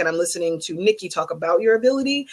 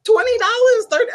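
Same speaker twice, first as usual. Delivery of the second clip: laughing amazement; 5 dB louder than usual. Real, not acted. Amazed at tips.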